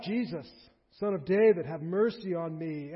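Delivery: loud call, slowing on the last words; crying out. Retold or imitated. Blind man calls to Jesus over the crowd, loud. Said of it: "So he cries out".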